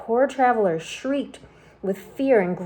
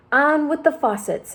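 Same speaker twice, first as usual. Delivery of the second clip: high, loud booming call from above; shouted; 7 semitones higher, 4 dB louder than usual. A narrator's reading. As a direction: shout down from the cloud. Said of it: "it shouted".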